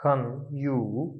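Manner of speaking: "हन यू" drawn out very slowly; slow Chinese demo. Shown as a demonstration. Teacher's slow final model of the word. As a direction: stretch "हन यू" tone by tone. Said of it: "इसकी pronunciation क्या होगी".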